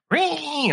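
high revving engine noise; motor noise. Real, not acted. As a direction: rev it like a jet ski engine. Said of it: "Do that noise again?".

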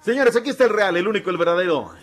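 big ringside announcer voice; announcer intro. Acted. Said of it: "Preséntelo, por favor, doctor".

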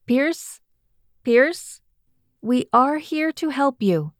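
high, calling alien voices; alien crew voice. A narrator's reading. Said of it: "an alien crew responded".

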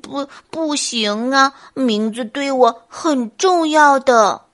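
slow, halting bear in distress; anxious bear. Acted. Bear objects to going home without his name, anxiously. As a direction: drag out the plea, worried. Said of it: "笨熊着急地说".

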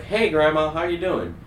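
high, bright fake-innocent hello; excited stoned greeting. Stoned teen answering grandma's call, high and overexcited. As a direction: sound way too excited to be normal. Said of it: "you sound really excited and, like, energized".

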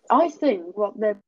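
choppy broken call audio; glitching call audio. Real, not acted. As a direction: voice breaking up over a bad call line. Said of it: "your voice is glitching out".

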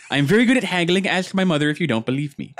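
high, boastful nerd. Retold or imitated. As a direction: brag about haggling as a mock nerd. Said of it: "the nerd voice".

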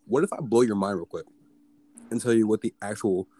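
hiccuping between words; talking through hiccups. Real, not acted. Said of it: "Oh, sorry, I got the hiccups".

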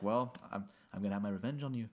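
lightly put-on mumbly, vaguely Irish accent; a hint of mumbled, vaguely Irish accent; Johnny Depp. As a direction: mumble it with a faint, muddled Irish lilt. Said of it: "this is kind of my Johnny Depp".

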